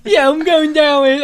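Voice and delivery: high, loud, slow Boston drawl; Boston accent. Shown as a demonstration. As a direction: stretch it out like a Boston guy. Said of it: "do a Boston accent".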